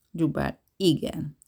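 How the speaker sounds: slow, weary answer; a touch of fatigue; tired reply. Acted. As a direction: say it like you've had enough. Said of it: "felelte Harsó fáradtan".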